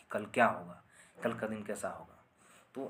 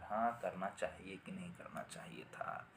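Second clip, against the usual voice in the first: whisper; 3 semitones lower, 8 dB quieter than usual. Pretend. Pondering doubt, voiced.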